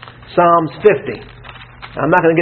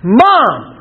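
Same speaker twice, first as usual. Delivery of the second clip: high, drawn-out call for mom; panicked cry; 6 semitones higher than usual. Acted. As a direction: act out a child crying out. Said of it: "cry out in panic".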